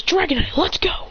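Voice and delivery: high-pitched battle call. Acted. Christian calling Dragonite to set off, high call. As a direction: summon your partner in a high voice.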